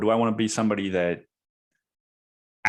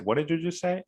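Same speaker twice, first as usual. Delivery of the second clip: incredulous retort; 9 semitones higher, faster than usual. Retold or imitated. Repeating the stunned retort.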